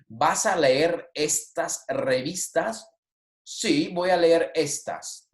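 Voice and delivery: slow, measured Spanish question and answer; slow model reading. Shown as a demonstration. Teacher reading a magazine dialogue to students, slow model reading. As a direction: read each word slowly for learners.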